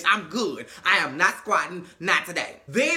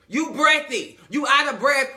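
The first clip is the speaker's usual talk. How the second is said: higher, louder emphatic jab; louder repeat; 4 semitones higher, 5 dB louder than usual. Real, not acted. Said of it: "But you breathy".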